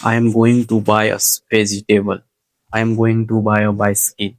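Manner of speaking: very slow, carefully spaced English sentence; slow English demo. Shown as a demonstration. Teacher models thinking in English, very slow and deliberate. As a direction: spell out each word slowly like a beginner. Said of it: "English में सोचना पड़ेगा".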